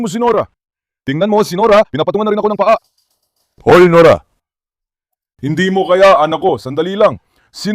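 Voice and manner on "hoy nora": loud warning call; sharp call. Real, not acted. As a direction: stop the dog short. Stopping dog stepping on him. (malakas na saway)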